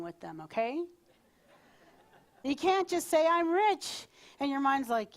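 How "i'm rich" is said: loud, higher mock declaration; declared affirmation. Speaker demonstrating an affirmation the mind rejects, loud declaration. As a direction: proclaim it boldly.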